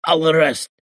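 high strained croak. Acted. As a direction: force it out hoarsely. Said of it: "I croaked".

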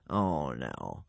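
low, soft, weakened voice; faint. A narrator's reading. Half-drowned man from the coffin answering the tribe, faint voice. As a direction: say it feebly, barely there. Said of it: "it said faintly".

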